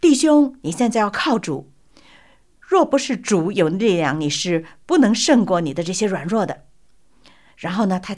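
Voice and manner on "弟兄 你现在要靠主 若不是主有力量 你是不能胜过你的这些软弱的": retold pastor crying out to the suffering man; pastor's loud call. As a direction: call out to the brother like a preacher. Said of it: "牧师反而大叫".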